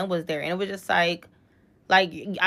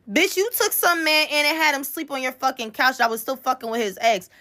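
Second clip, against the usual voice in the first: higher-pitched heated comeback; retold angry clapback; 4 semitones higher than usual. Telling off a friend who mocked her love life, heated clapback. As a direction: fire back at her, fed up. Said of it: "I was so sick of her".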